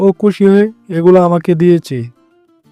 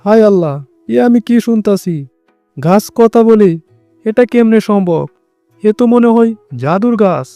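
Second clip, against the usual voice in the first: astonished; 3 semitones higher than usual. Acted. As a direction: gasp it out in wonder. Hears a tree talk.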